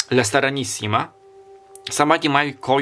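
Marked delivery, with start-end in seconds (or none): 0.1-1.1 La Serenissima with rolled Italian vowels, la stəranisima; Italian accent. Shown as a demonstration. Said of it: "with a very s-, Italian accent in English".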